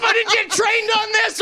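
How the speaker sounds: high, slow juddering shout; vibrating voice. Pretend. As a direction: shake the words like a jackhammer. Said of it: "here is my actual impression of a jackhammer".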